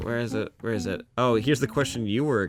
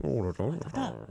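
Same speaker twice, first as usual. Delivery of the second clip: Italian impression; 2 semitones higher, 7 dB quieter than usual. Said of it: "what Italian sounds like to me".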